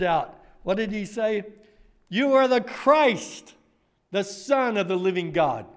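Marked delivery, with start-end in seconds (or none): 2.1-5.7 bold proclamation. Acted. Peter's confession retold boldly.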